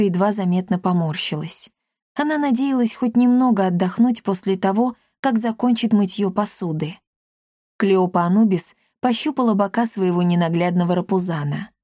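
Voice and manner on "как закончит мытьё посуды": usual speaking voice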